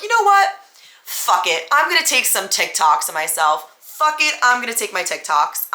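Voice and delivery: carefree defiance; defiant. Retold or imitated. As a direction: shrug it off and go for it. Defiant self-talk, salvaging night.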